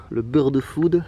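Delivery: put-on bird food with a light English accent; mock English accent. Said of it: "avec mon accent anglais". (léger accent anglais pour rire)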